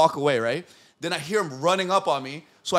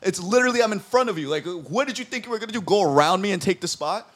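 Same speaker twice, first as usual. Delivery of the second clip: annoyed telling-off; 5 semitones higher than usual. Retold or imitated. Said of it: "I just start talking mad shit".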